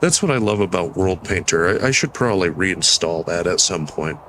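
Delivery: stuffy nasal voice. Real, not acted. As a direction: talk through a blocked nose. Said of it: "I hate how nasally my voice sounds right now".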